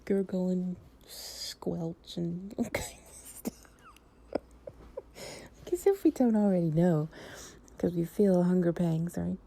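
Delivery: giggling through the words; can't stop laughing as she talks; laughing while talking. Real, not acted. Joking with a partner about noisy stomachs, giggling.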